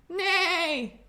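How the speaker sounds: horse neigh. Pretend. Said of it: "I think that's a horse".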